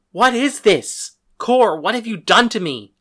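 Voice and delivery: loud, high cry of agony; anguished cry. A narrator's reading. Narrator as someone in excruciating pain demanding answers, anguished cry. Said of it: "I cried".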